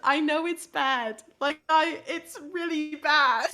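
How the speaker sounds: sheepish attempt at a British accent; apologetic, in a put-on British voice; badly faked British accent. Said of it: "I will talk in a British accent".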